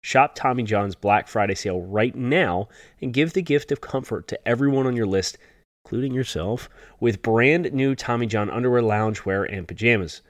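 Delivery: upbeat sponsor read; holiday sale ad. Acted. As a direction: read it like a radio ad. Host reads sponsor ad.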